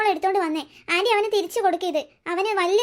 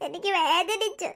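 soft whimper; 5 dB quieter, much slower than usual. Acted. Boy says it hurt.

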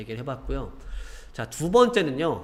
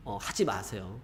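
normal talking voice

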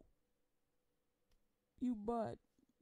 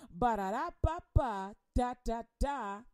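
mock babbling tongues; 6 dB louder than usual. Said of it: "all I hear is".

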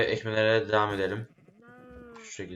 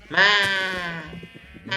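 sheep bleat imitation; 9 semitones higher, 5 dB louder than usual. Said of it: "Diye bağırır".

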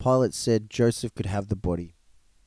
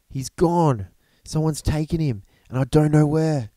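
higher, urgent report, lightly acted; mildly puffed out; 5 semitones higher, 3 dB louder than usual. A narrator's reading. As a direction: blurt it out as if just back from a run. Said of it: "and puffed out".

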